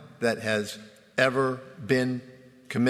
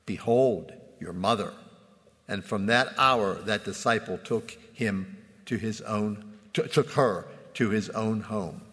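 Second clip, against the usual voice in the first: measured, solemn reading of the Gospel; scripture reading. Acted. Pastor reading the crucifixion account to his congregation, solemn reading. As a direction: read it out to the congregation with gravity.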